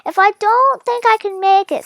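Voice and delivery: a hint of a determined father; father speaking. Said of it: "said my father".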